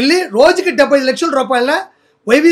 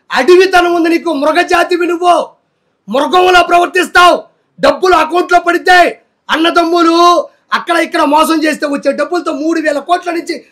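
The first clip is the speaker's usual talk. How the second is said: angry outburst; 4 semitones higher than usual. Real, not acted. Angry rant at Roja.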